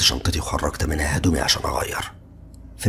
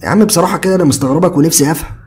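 higher, louder exasperated friend; fed-up Ziad; 10 semitones higher, 8 dB louder than usual. A narrator's reading. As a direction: sigh it out, annoyed at being pestered. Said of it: "هز دماغه بزهق".

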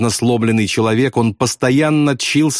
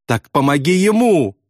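high plea, climbing higher; imploring; 9 semitones higher than usual. A narrator's reading. Pilot begging bombardier to help, high imploring wail. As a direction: beg in a rising wail. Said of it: "взмолился Добс".

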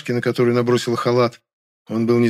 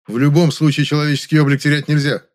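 raised, louder, categorical tone; firm cutoff; 5 semitones higher, 5 dB louder than usual. A narrator's reading. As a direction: cut off the excuse firmly. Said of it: "отрезал я". (отрезать твёрдо, громче)

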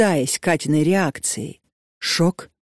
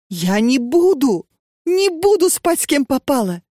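high, squeaky protest, rising sharply higher; squeak; 8 semitones higher than usual. A narrator's reading. Katya squeaking her refusal at the old woman. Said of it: "пискнула Катя".

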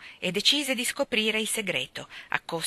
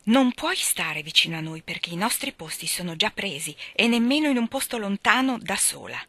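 very angry; 5 semitones higher, 5 dB louder than usual. Acted. Jo angrily telling Amy she can't come. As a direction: lay down the law, fuming. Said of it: "Joe si arrabbiava molto".

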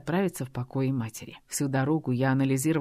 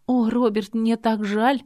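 higher, louder, tearful plea; sobbing apology; 7 semitones higher, 6 dB louder, slower than usual. A narrator's reading. Girl apologizing to Robert, near tears. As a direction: plead through a sob. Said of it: "Девушка всхлипнула".

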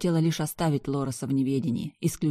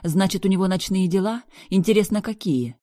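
rising, sharp and louder; jealous fury building up; mock-sweet jealous outrage; jealous anger; 4 semitones higher, 5 dB louder than usual. Jealous rant at brother.

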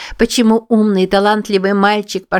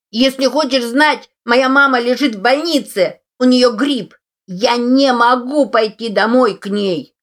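put-on high boy's voice shouting back from down the block; a hurt kid yelling his reason from a distance; boy calling from afar; 6 semitones higher than usual. A narrator's reading. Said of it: "мальчишка закричал издалека".

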